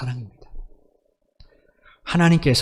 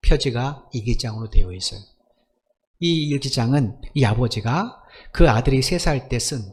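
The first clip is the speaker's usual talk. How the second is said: usual speaking voice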